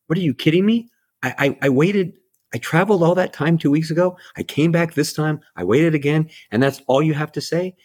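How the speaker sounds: high-pitched indignant outburst; upset mother. Retold or imitated. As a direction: protest in disbelief, pitch way up. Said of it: "And the lady's upset".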